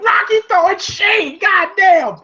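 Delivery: high-pitched delighted exclaim; excited high exclaim. Retold or imitated. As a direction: squeal it with delight. Own exclaimed reaction.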